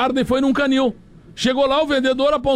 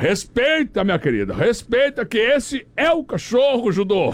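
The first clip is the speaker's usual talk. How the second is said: swaggering, self-important, puffed-up proud tone; 3 semitones lower than usual. Telling a joke, the speaker acts out the man answering the woman, mock-proud, chest puffed out. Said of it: "respondeu estufando o peito".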